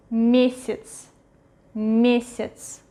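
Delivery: Месяц with unstressed я sounding as i; reduced middle Ya. Shown as a demonstration. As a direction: say месяц as MYE-sits. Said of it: "we pronounce it as".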